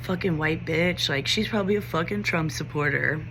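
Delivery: mock jeer said in an undertone, voice put on; taunting. Students following behind a teacher, imitated taunting. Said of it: "taunting me".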